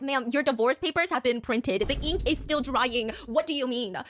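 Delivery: slow, incredulous mock address; drawn-out, exasperated reality check; mock incredulity. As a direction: spell it out slowly in disbelief. Mock reply to hypocritical advice-givers.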